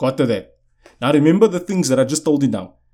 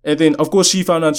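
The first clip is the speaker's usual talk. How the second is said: usual speaking voice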